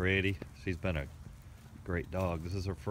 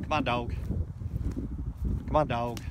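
shouting over wind; 5 semitones higher, 4 dB louder than usual. Real, not acted. Calling dog over wind.

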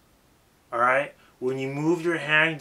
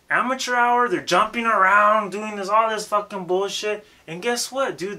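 loud, high, worked-up; heated rant; 7 semitones higher, 6 dB louder than usual. Real, not acted. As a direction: rant at amateurs full force. Ranting about amateur rappers.

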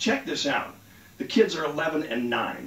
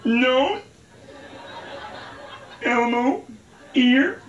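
stoner voice; 9 semitones higher, 3 dB louder, much slower than usual. Retold or imitated. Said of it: "they talk so weird".

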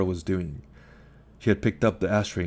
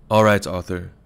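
curt and louder, cutting him off; sharp; 6 dB louder than usual. Acted. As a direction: snap his name to shut him down. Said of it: "said sharply".

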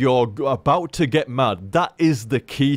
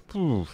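a soft breathy phew of relief, quieter; relieved exhale; 6 dB quieter than usual. Pretend. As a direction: let the tension out with a quiet phew. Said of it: "And it just goes".

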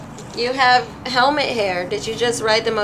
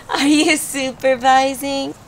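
put-on slow, playful cooing at baby; baby talk; 4 semitones higher, slower than usual. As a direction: draw it out to make him laugh. Making the baby laugh.

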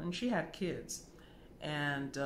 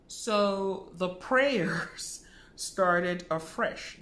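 laughing whisper; 4 semitones higher, 8 dB louder, much slower than usual. Real, not acted. Wry aside on prayers.

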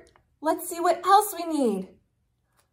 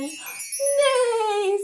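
horse neigh; 6 semitones higher than usual. Acted. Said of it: "says a horse".

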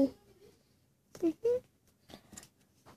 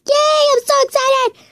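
much higher, squealed yay; cheering for the new channel, squealed much higher; over the top excitement; 9 semitones higher than usual. Real, not acted. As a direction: gush it out way too excited. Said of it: "too much".

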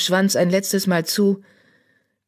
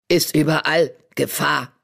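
wise old badger. Old badger silencing Charlie with a stern word. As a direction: speak like an ancient oracle of the stars.

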